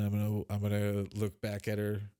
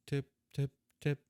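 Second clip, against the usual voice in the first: light knocking; 6 semitones higher than usual. Acted. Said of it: "try and do it lightly".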